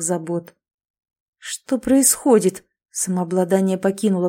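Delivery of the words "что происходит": higher, slow, lost; bewildered panic. Acted. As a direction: ask in rising panic. Prince losing composure.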